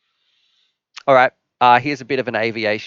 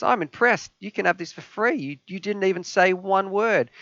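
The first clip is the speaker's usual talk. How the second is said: a hammed-up higher pilot handing out the prize; impressed pilot; 9 semitones higher than usual. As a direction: play the pilot, pitched up and impressed. Joke, helicopter pilot impressed.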